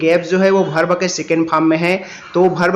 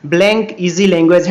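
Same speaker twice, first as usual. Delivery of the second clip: slow read-aloud; much slower than usual. Shown as a demonstration. Reads question.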